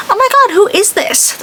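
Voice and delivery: high, slow fake-clueless brush-off; mock rude reply. Snubbing the ex-coworker who texted, a mock clueless brush-off. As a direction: pretend not to know her, snidely. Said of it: "I was gonna be so mean".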